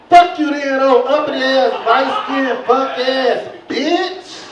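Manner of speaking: loud rejected shout; angry insult. Acted. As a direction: bark insults after rejection. Rejected male insults female.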